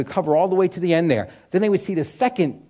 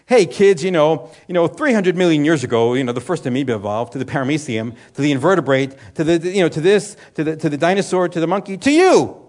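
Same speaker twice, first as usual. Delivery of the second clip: lightly voiced cheery kids' TV host, louder; hammed-up science show for children; mock kids' video narrator; 4 dB louder than usual. Pastor mocking a kids' dinosaur video, cheery and loud. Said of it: "the first thing they'll tell the kids is".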